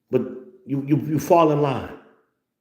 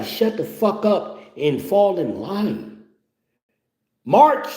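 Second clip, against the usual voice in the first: military command; 6 semitones higher, slower than usual. Acted. Ordering them to fall in line, commanding. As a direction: call it out like a drill order.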